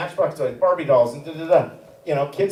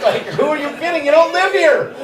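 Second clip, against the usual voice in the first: much higher, quick, laughing; laughing scoff; 11 semitones higher, 5 dB louder than usual. Real, not acted. Comic to the crowd about his daughter: high laughing scoff. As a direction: toss it off with a laugh.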